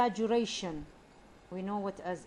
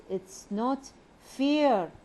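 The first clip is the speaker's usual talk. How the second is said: slow, high and loud, with a long rise-fall on "fair"; exaggerated complaint; 4 semitones higher, 5 dB louder, much slower than usual. Shown as a demonstration. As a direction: whine it out slowly, stretching the fall on "fair". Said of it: "you see the rise and fall".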